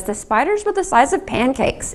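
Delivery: a hint of her grandmother's Swiss accent. Quoting her grandmother's complaint about Florida, mild Swiss accent. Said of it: "in her Swiss accent".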